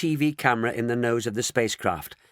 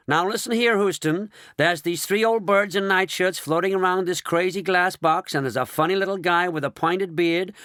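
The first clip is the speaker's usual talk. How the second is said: excited; 7 semitones higher, 3 dB louder than usual. Acted. Shanks excitedly reports to Houston.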